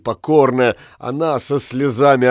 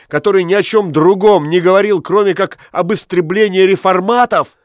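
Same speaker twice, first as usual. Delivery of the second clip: higher, louder furious ranting; furious tirade; 7 semitones higher, 3 dB louder than usual. Acted. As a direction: rage at the lecherous monk. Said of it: "возопил Ламме".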